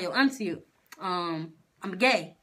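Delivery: low-key, halting admission; hesitant confession. Retold or imitated. Retelling coming out to auntie, hesitant.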